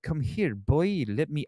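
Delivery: attempted film-character accent, hammed up; imitating Tom Hanks. Streamer mocking Tom Hanks's awful accent as a famous singer, imitated accent. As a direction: put on Hanks's odd movie accent. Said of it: "The fact he tried to do that".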